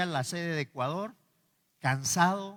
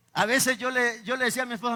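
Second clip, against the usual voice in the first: talking through laughter; laughing; 7 semitones higher, 7 dB louder than usual. Real, not acted. Preacher laughing at his own joke while telling the congregation.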